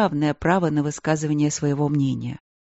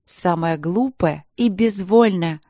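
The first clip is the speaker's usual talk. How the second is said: grumbling; 3 dB louder, slower than usual. Acted. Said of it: "проворчала Василина".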